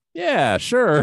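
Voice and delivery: acted, very loud, shrill, breezy nonchalant offhand tone. Retelling a funny movie ending where Mike answers Debbie, imitating Mike's nonchalant tone. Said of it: "It's like so nonchalant".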